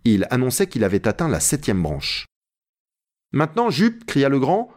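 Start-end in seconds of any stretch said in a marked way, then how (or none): 3.3-4.0 high, urgent call to Jup; agitated cry. A narrator's reading. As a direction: cry out in agitation, pitched well up. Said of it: "en proie à une agitation manifeste". (cri agité)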